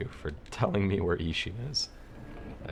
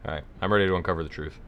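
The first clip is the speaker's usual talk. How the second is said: fast, rushed dubbed line; bad movie dubbing; much faster than usual. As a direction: gabble it like a cheap dub. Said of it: "I'm doing the dub voice".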